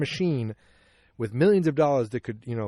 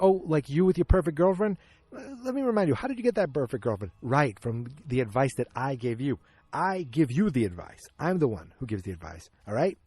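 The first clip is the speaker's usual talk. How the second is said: mock bickering; 2 semitones higher than usual. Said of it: "they're just arguing".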